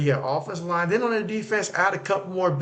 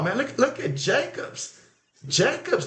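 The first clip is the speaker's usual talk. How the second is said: excited; 7 semitones higher than usual. Real, not acted. Streamer amazed watching Jacobs run, excited. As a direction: marvel at the run.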